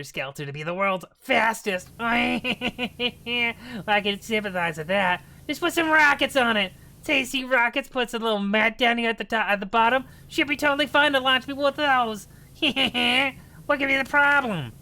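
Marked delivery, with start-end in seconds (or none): 5.5-14.7 goblin voice. Acted. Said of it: "am doing lots of voices here".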